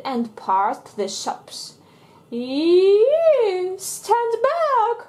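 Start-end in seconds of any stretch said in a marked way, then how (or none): 2.3-5.0 high, loud warning; alarmed cry. Acted. Mummy Pig races past the shops, alarmed. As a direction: yell at people to move. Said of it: "cries Mummy Pig".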